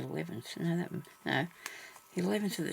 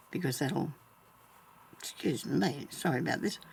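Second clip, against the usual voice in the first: hiccups. Real, not acted. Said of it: "I think I've got the hiccups now".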